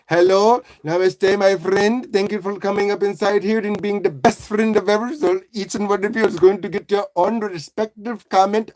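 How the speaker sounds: lightly put-on Indian accent. Streamer thanking a friend for coming inside, mock Indian accent. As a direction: imitate a grateful host in an Indian accent. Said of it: "and my Indian people to you too".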